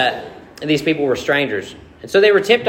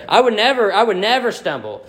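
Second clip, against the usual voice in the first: insistent vow in a raised pitch; boastful Peter; 4 semitones higher than usual. Acted. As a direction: protest it like a big mouth. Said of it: "Peter had that big mouth again".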